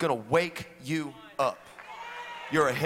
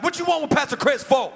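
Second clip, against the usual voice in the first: sassy assistant; 9 semitones higher, 7 dB louder than usual. Retold or imitated. Assistant challenging the stranger.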